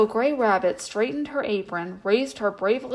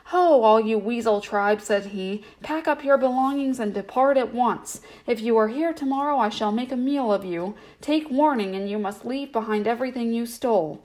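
owl's warning; 2 semitones higher than usual. Acted. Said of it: "shouted to them".

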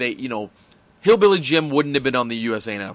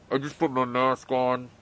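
Grand Metalik voice; 3 dB quieter than usual. Retold or imitated. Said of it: "What does Grand Metalik sound like again?".

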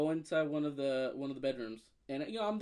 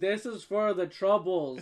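mock solemn payout; 2 semitones higher, 6 dB louder, slower than usual. Acts out paying her back.

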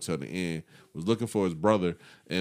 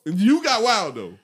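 laughing; 14 semitones higher, 6 dB louder, slower than usual. Real, not acted. Teasing friend, laughing.

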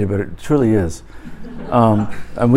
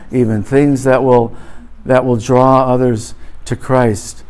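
pronounced blessing. Acted. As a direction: bless them deliberately, word by word. Blessing the congregation.

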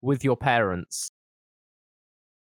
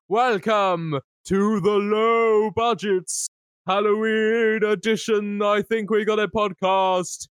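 slow, higher, hammed-up Jamaican accent host; mock Jamaican accent; 5 semitones higher, slower than usual. Host welcoming listeners in a mock Jamaican accent. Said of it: "I'll go with the Jamaican".

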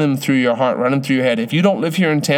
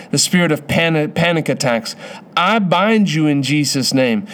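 forceful deliverance prayer, commanding; laying a curse. Acted. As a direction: bind the spirit with authority. Prays against spirit of suicide.

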